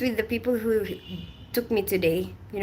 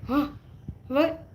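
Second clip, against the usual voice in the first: mock baffled "huh?", pitched up; puzzled reaction; 6 semitones higher than usual. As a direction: imitate someone caught off guard. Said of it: "somebody was like".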